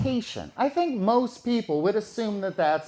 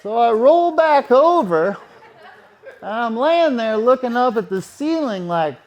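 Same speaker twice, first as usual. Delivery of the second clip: laughing; 2 semitones higher, 7 dB louder than usual. Real, not acted.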